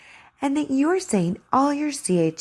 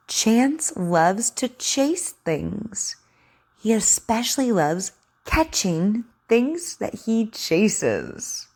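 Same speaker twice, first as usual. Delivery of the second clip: slow, carefully sounded-out reading; over enunciating; much slower than usual. Shown as a demonstration. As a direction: read each word slowly and clearly. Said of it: "Sound out your words and practice your ch sound".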